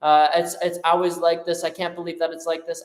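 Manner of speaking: lightly acted whiny complainer; mock complaining. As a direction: imitate someone grumbling that everything's unfair. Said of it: "just sits around and complains and moans and being like".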